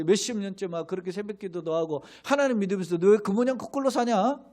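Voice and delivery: 비아냥거리는 조롱조, 점점 높아지며; sneering taunt. Retold or imitated. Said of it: "비아냥거리는 사람들이". (세상 사람이 교인을 비아냥거리며, 빈정대는 말투)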